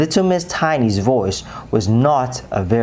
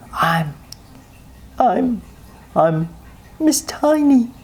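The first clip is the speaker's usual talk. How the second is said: shy stammer; 12 semitones higher, slower than usual. A narrator's reading. Shy mouse stammers her name.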